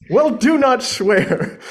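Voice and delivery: high, slow plea; slow and drawn out. Acted. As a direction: stretch every word slowly. Juliet reading, drawn out.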